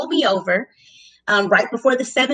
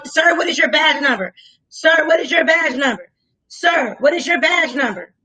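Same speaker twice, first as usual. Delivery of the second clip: firm demand; 3 semitones higher than usual. Retold or imitated. Demanding the deputy's badge number, insistent. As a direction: hammer the question home.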